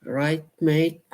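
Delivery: a high, chirpy British "Right, mate?"; British accent. Pretend. Streamer trying out a British accent on chat. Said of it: "I like doing those accents".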